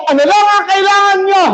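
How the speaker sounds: high, rousing call to the crowd; shouted prompt. Real, not acted. Preacher telling everyone to shout, high rallying call. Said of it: "Isigaw nyo lahat".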